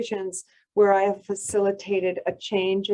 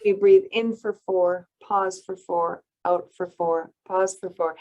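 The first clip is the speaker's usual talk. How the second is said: calm breathing count. Shown as a demonstration. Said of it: "Square breathing is the same".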